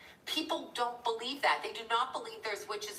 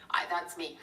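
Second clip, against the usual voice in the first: whispered aside; 3 semitones lower than usual. Real, not acted. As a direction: drop to a whisper for a quick aside. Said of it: "aside to chat".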